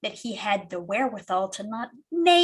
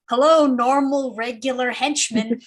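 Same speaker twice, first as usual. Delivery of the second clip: a little higher and louder, innocent phone greeting; mild-mannered voice; 4 semitones higher, 6 dB louder than usual. Acted. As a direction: sound like a harmless, polite henchman. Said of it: "does the mild-mannered move work over the phone".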